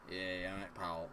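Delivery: low, quiet Scottish menace; threatening Scottish accent. Acted. A Scot's greeting that sounds like trouble, low threatening Scottish accent. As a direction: drop into a soft, slightly threatening Scottish greeting. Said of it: "It sounds slightly threatening".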